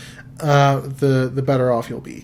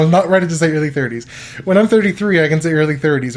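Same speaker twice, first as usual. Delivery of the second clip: laughing protest; 3 semitones higher, 5 dB louder, faster than usual. Real, not acted. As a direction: insist playfully, pitch up. Protesting being called early thirties.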